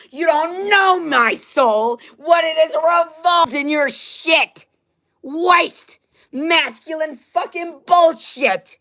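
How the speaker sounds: very high, slow, shouted; screaming rage. Real, not acted. Ordering the men to back off in a high furious scream. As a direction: make them back off.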